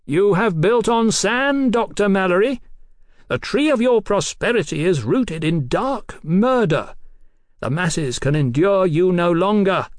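high, slow, ringing declamation; oratorical denunciation. Acted. Captain denounces the doctor's civilization, declaiming. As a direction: denounce him like a prophet of doom.

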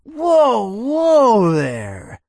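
mock calm a rival; cocky taunt. Toby blocks the way.

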